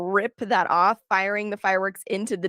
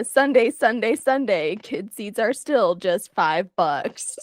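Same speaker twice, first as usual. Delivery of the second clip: slow motion; slower than usual. Acted. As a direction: stretch every word in slow motion. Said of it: "what are you saying in slow motion".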